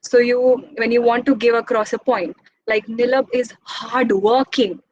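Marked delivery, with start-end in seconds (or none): 2.9-4.8 slow, with weight on "hardworking"; slow, deliberate "Nilab is hardworking" with "hardworking" pressed hard; stressed hardworking. Shown as a demonstration. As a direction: lean on "hardworking" with a touch of anger. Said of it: "I just said hardworking, but that was angry".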